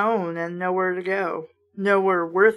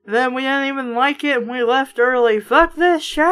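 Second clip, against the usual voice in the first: loud, ranting imitation of angry parents; fed-up parent; 7 dB louder than usual. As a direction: rage at the wasted money, hammed-up. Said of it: "your parents be like".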